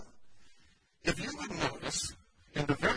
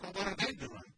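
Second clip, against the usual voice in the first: inner wondering; 3 semitones higher, 6 dB quieter than usual. Retold or imitated. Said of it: "you just think".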